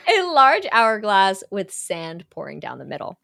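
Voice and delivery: laughing through a clean retake; a large hourglass said clearly while laughing. Real, not acted. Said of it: "did I just have a lisp?".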